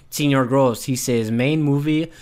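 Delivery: put-on Latino accent for a listener's question; lightly caricatured Latino accent; mock Latino accent. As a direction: read it out in a hammed Latino accent. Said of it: "Is that how he sounds?".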